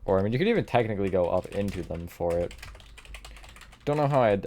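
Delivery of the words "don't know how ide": voice crack. Real, not acted. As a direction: voice cracking on ide-. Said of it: "voice crack".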